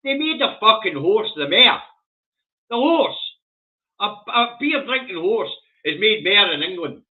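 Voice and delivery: loud and high, slowed in outrage; shouty rant. Real, not acted. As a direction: bellow the absurdity at the camera. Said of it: "wee bit shouty".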